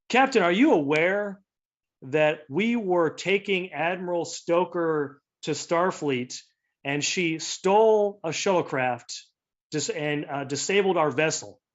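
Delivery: mildly indignant, slow and deliberate; angry captain. Acted. Andorian captain confronts Jellicoe over Stoker, mildly angry. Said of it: "he's, he's mad".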